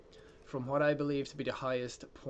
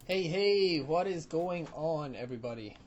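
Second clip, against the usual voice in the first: put-on old intro greeting; 3 semitones higher than usual.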